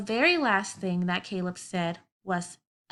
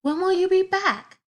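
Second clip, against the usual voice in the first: acted question; 9 semitones higher, 7 dB louder than usual. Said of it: "You can say something like".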